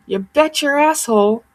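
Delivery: high-pitched, lightly put-on quote; Jordan Sather. Repeating a line never heard before, lightly imitating him. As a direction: lift the pitch to mimic the assurance. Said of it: "Jordan Sather goes".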